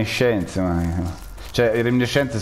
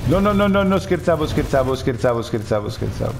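much higher, hammed-up panicked "no"; mock panic; 4 semitones higher than usual. Player pretending to panic about turning, mock panic. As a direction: take it back in mock panic. Jokingly proposes turning, backs off.

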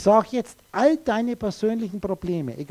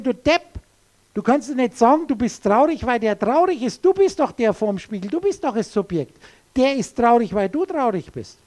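scolding; 2 semitones higher, 4 dB louder than usual. Acted. Mock scolding of crying child.

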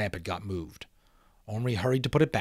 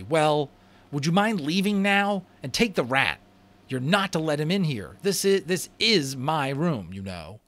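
put-on boy's voice; 7 semitones higher, 6 dB louder than usual. A narrator's reading. Omri orders brothers out.

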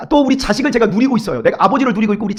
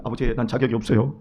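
much lower and softer plea; timid child's plea; 12 semitones lower, 11 dB quieter than usual. Retold or imitated. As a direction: say it small and defeated like a child. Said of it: "우리 유아가 맨날 그럽니다". (훨씬 낮고 작게 풀죽은 아이 목소리)

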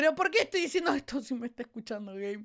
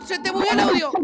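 called out louder; 2 semitones higher, 6 dB louder than usual. Real, not acted. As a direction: raise the voice to get through. Repeats after friend misses it.

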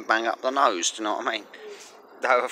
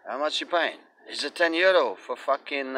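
lightly raised voice of a haggler; haggling buyer; 6 semitones higher than usual. Retold or imitated. Guy bargaining over the weed price, mildly mocking. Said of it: "some guys come up to me".

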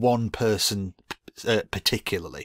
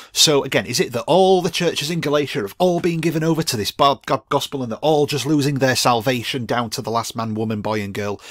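mock outrage; 4 semitones higher, 5 dB louder than usual. Real, not acted. Mocking the opponent's reading.

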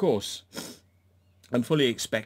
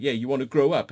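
mock scornful; 3 semitones higher, 6 dB louder, faster than usual. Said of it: "And she's like".

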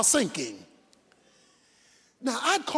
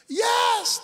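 eager shout; 9 semitones higher than usual. Acted. Man answering the voice eagerly.

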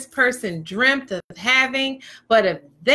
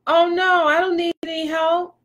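higher-pitched polite brush-off; mild protest; 4 semitones higher than usual. Acted. Partner turning down an offer of help, mildly protesting.

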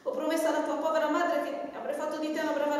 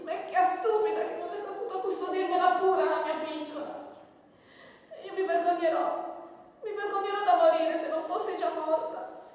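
crying; 4 semitones higher than usual. Acted. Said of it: "Tata, non piangere".

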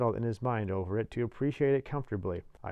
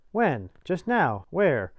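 short, loud, higher exclamations; urgent exchange; 6 semitones higher, 7 dB louder, much slower than usual. A narrator's reading. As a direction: fire off urgent question and answer. Urgent exchange of convict and boy.

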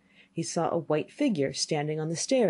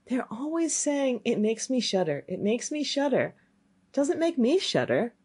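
put-on puzzled boy; 5 semitones higher than usual. Boy puzzles over the saying.

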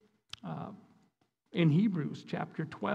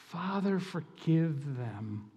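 slow, soft and tender; soft slow dying plea; 4 dB quieter, slower than usual. Acted. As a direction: breathe it out like a dying man forgiving. Voicing dying Christ on cross.

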